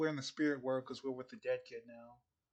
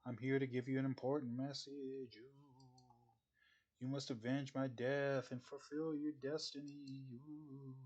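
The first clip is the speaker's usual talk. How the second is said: overacted death scene; 5 dB quieter than usual. Ghost gives message.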